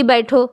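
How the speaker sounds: بیٹھو after a break; separate word. Shown as a demonstration. Teacher completing the misphrased command. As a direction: say بیٹھو alone after the pause. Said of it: "اور پھر میں کہہ رہی ہوں کہ".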